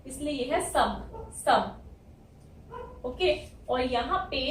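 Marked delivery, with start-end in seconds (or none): 0.1-3.0 सब stretched slowly, short a sound; sound out syllable. Shown as a demonstration. Teacher sounding out सब slowly for students. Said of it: "इसकी sound है अ".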